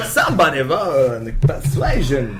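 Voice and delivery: lightly mimicked halting celebrity voice; Christopher Walken. Teasing whoever called for a persuasion roll, imitation. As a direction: do a teasing celebrity take-off, pitched a bit low. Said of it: "you're Christopher Walken".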